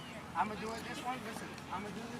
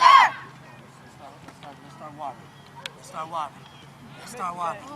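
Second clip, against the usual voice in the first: calling out; 6 semitones lower, 15 dB louder than usual. Real, not acted. Coach calling team to drink water.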